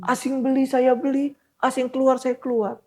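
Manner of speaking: put-on high, evenly pitched old man's voice; elderly man's accent. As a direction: recite it as an old trader would. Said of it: "dengan logat-logat udah tua gitu". (menirukan logat orang tua)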